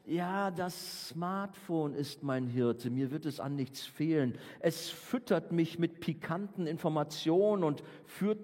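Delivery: mock-reverent reading of the modern psalm, slow; slow mock psalm recital. Shown as a demonstration. Preacher parodies Psalm 23 for his listeners, slow mock-solemn recital. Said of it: "sondern vielleicht klingt es bei dir so".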